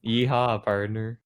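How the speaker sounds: lightly voiced cowboy. Player accepting his new cowboy role, lightly played. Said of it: "you are a cowboy now".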